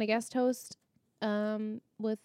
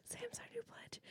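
trying not to laugh; 12 semitones higher, 20 dB quieter than usual. Real, not acted. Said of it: "I really try not to laugh".

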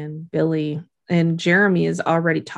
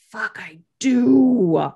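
resigned admission; 2 semitones higher, much slower than usual. Retold or imitated. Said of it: "And Winona's like".

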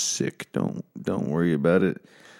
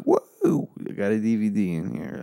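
mock amazement. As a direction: play it as a goofy over-the-top wow. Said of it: "And it's like".

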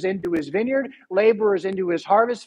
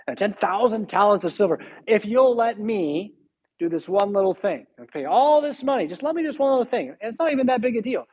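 Haman scheming; 2 semitones higher than usual. Retold or imitated. Haman coaxing the king.

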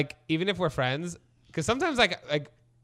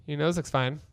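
deadpan; slower than usual. Retold or imitated. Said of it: "you're like".

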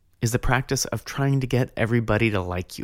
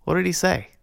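put-on old monk quizzing; 8 semitones higher, faster than usual. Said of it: "he says".

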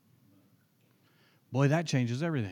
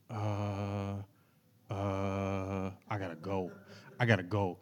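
nervous retreat; 4 semitones lower, 9 dB quieter, slower than usual. Retold or imitated. Nervous kid wanting to escape.

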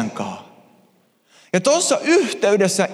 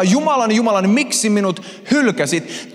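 the stronger, higher-pitched cry of forsakenness; anguished shout; 6 semitones higher than usual. Acted. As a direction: shout it out to God, abandoned. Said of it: "Jeesus huutaa".

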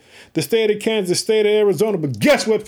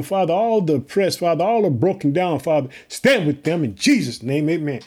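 earnest spoken prayer, rising and falling; preacher leading an opening prayer. Acted. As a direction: pray over the congregation with feeling. Opens the sermon in prayer.

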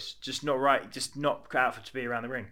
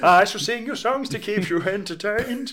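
higher, slow grand self-introduction; pompous minstrel; 9 semitones higher, 8 dB louder, slower than usual. Acted. Morris the minstrel elf grandly introducing himself. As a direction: announce yourself like a proud bard.

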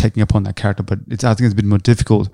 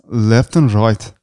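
slow learner's try at South African; tentative, drawn-out South African imitation; attempted South African accent; much slower than usual. Shown as a demonstration. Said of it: "in, in South African".

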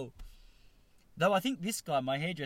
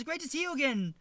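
put-on high-pitched, rough Asian accent; badly faked Asian-accented greeting; mock Asian accent; 11 semitones higher, 4 dB louder than usual. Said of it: "do the Asian accent".

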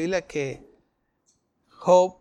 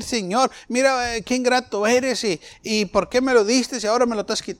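higher, accusing mock rant at God; mock ingrate complaint; 6 semitones higher than usual. Job mocking the complaint he refuses, higher accusing. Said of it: "Y yo no voy a decir".

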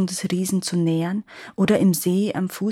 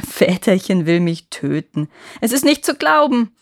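laughing; 5 dB louder than usual. Acted. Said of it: "rief der Junge zurück und lachte noch lauter".

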